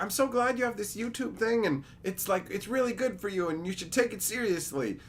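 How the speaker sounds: a beaming proud mom; happy mom. Retold or imitated. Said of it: "she was so happy".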